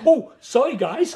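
high, loud startled apology; mock embarrassed apology. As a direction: blurt it as if walking in on something. Mimics embarrassed intruder walking in.

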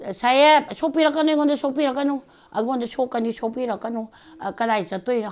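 high, fading plea; pleading. Retold or imitated. Woman begging the sahib not to touch her, high pleading. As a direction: beg him to keep away, voice climbing high.

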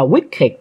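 wicked in two syllables, ending "ịch". Shown as a demonstration. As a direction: say wicked as WICK-id. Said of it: "âm ịch nha mấy đứa".

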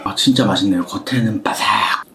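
words through a chewing mouth; savoring food while talking. Real, not acted. Seen 1: lips pressed, jaw working between words; bit food earlier, drank.

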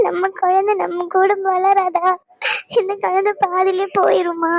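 tearful questioning, sobs between phrases; crying. Acted. Wife asks whether their baby is lost, crying. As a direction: ask helplessly through tears. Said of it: "நீ அழுகாதன்னு சொன்ன".

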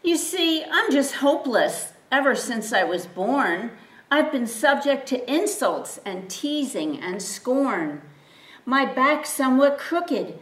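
small donkey protesting he is too weak; fearful pleading. Acted. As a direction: beg him to choose someone else. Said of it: "cried the donkey with dread".

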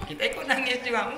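playful imitation of crying along; mock crying. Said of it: "tiba-tiba menangis". (pura-pura ikut menangis)

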